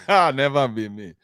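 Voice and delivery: slow, laughing "Never be me"; the speaker laughing off the idea it could be him, slowed down; laughing denial. Real, not acted. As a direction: laugh the words out slowly. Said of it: "Can never be me".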